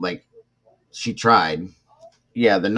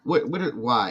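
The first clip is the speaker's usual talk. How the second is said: incredulous; 8 semitones higher, 5 dB louder than usual. Real, not acted. Disbelief at girlfriend's words.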